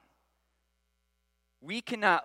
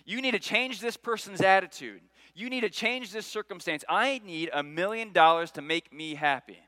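demanding; 4 dB louder than usual. Retold or imitated. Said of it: "we go to God and say".

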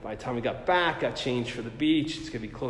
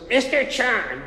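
high, sharp call of his name; sharp summons; 10 semitones higher, 3 dB louder, slower than usual. Retold or imitated. Supervisor calling him out across the cubicles, sharp and high. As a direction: call him out like a stern boss. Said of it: "this voice".

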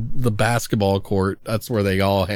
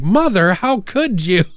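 mock melodramatic plea; 8 semitones higher than usual. Daughter's melodramatic line retold.

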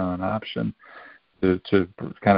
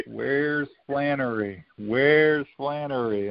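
slow, drawn-out higher call; coach calling out; 5 semitones higher, much slower than usual. Retold or imitated. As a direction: stretch each name out like a coach searching the sideline.

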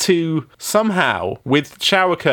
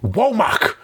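Connery voice. Retold or imitated. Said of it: "I can't do a Connery".

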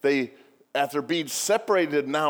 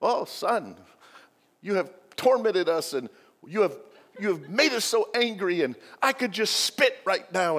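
guilt-tripping mother; 4 semitones higher than usual. Retold or imitated. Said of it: "lay a guilt trip on you".

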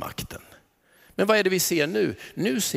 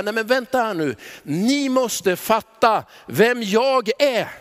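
urgent Jesus; 4 semitones higher, 3 dB louder, slower than usual. Acted. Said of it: "så vill han plötsligt stanna och säga".

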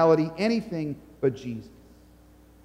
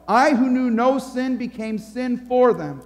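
firm defender, pitch lifted; a hint of a bold advocate; Jesus answering the accuser; 5 semitones higher than usual. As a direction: step in and take the blame, emphatically. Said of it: "So Jesus says to your accuser".

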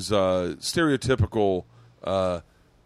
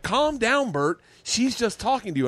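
retold intervention; 11 semitones higher than usual. Friends intervening in acted quarrel.

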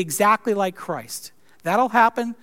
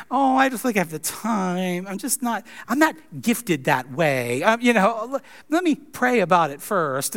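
1 mock churchgoer excuses. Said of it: "same excuses that we give pastors".

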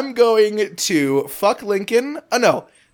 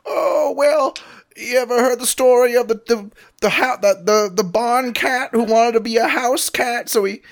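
higher voice, a lightly voiced rambling storyteller; rambling Lincoln; 4 semitones higher than usual. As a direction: play Lincoln getting lost in a long barn cat tale. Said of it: "And he's like".

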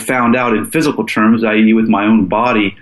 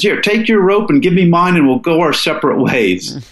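a lighter Southern drawl, higher at the start; 7 semitones higher than usual. Retold or imitated. Partner unties the rope and splits off, mild Southern drawl. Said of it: "funny Southern drawl".

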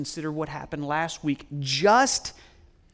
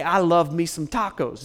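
"I love me some tacos", breezy and louder; casual taco love; 4 dB louder than usual. Shown as a demonstration. Preacher joking about loving tacos, playful. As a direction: toss off "I love me some tacos" as a light, jokey craving. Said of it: "than when I say".

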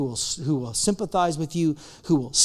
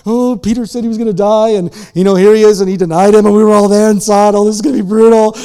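loud, excited gossip; gossiping disciples; 2 semitones higher, 12 dB louder than usual. Retold or imitated. Disciples whispering around the fire, loud excited gossip. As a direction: hype up the drama among the crowd. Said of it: "everyone's like".

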